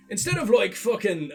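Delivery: failed first stab at an Irish dwarf accent; botched dwarf accent. Shown as a demonstration. Showing how game dwarves should talk, awful Irish dwarf accent. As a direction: attempt an Irish-twang dwarf and fumble it. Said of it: "uh, that was awful".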